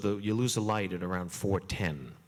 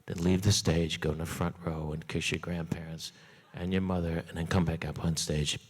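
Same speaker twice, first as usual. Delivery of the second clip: a hint of a low, matter-of-fact rabbi; rabbi's instructions; 6 semitones lower than usual. Rabbi leaning over the bar mitzvah boy, lightly voiced low and flat. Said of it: "he looks down at me and he says".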